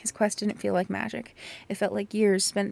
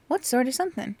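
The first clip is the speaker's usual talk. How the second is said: the question asked higher and more pressing; higher, more curious; 5 semitones higher than usual. Acted. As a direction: lift it, like a curious girl.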